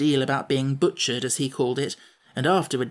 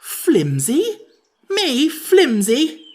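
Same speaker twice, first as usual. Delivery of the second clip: much higher, louder outraged cry; in a rage; 12 semitones higher, 8 dB louder, much slower than usual. A narrator's reading. Jack raging at the Sawhorse's insult, loud outrage. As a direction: explode in disbelief. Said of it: "cried Jack in a rage".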